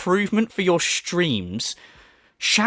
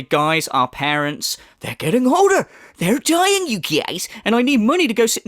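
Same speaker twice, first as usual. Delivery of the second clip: much higher, hammed-up pleading; mock sob story; 5 semitones higher than usual. Commentator mocking a fake plea for money, hammed-up pleading. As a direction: overplay a fake tearful plea. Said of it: "come out and say".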